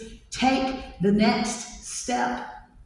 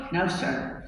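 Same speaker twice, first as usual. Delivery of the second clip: softer and lower with stutters; timid suitor stammering to an angry father; stammering nervous kid; 3 semitones lower, 5 dB quieter than usual. Acted. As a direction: stumble over the words, terrified. Scared boy stammers his answer.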